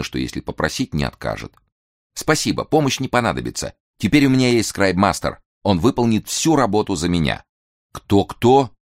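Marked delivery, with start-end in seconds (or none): 2.1-7.4 lightly voiced polite young man; light, higher, eager reply. Nicholas answers, voiced higher. 7.9-8.7 surprised. Acted. Bolotnikov asks, surprised.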